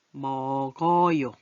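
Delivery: 먹어요 drawn out as meo-geo-yo; linked pronunciation. Shown as a demonstration. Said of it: "연달아서 이어서 발음할 때는". (먹어요를 이어서 머거요로 발음)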